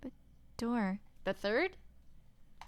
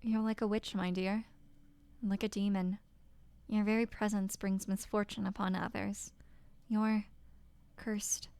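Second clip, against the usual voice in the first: cruel husband. Acted. Husband scorning his wife, a hint of cold contempt. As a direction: sneer it down at her.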